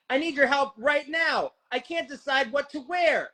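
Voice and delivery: mock emergency call. Friend acting out the safe word call, mock panic. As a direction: fake a frantic call about what to wear. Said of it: "Isom, let's act it out".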